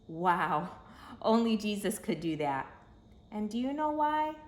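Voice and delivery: loud, high wonder; amazed. A narrator's reading. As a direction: marvel to the children. Narrator marvels to children.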